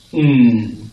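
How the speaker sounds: "mm" as a held nasal n; silent K sound. Shown as a demonstration. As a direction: hum the N alone, no k. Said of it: "so it's a silent K".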